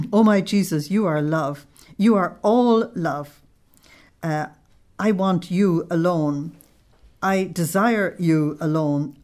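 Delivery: slow, fervent prayer reading; devotional reading. Acted. Teacher reads the mystic's prayer to Jesus, slow and fervent. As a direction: read it like a prayer, savouring each line.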